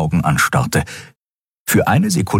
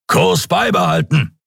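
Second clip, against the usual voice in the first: high, curt order; commanding; 10 semitones higher than usual. A narrator's reading. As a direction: give the command. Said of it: "befahl Sron". (knapper Befehl)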